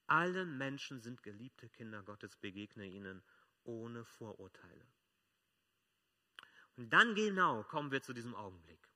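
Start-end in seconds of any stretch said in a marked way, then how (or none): 0.1-4.9 calmer restatement. Shown as a demonstration. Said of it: "repeated key sentence, calmer".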